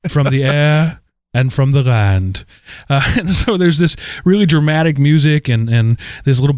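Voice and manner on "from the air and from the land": posh English narrator. Retold or imitated. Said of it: "posh English woman saying".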